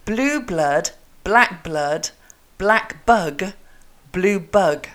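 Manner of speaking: each B crisply sounded in "blue blood, black bug"; "blue bug" in short separate phrases, crisp B; crisp articulation drill. Shown as a demonstration. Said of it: "let me say it".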